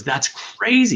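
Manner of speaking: little inner voice. Retold or imitated. Inner voice scolding him at the pharmacy, pitched high. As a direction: pitch way up like a tiny voice in his head. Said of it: "the little voice in my head goes".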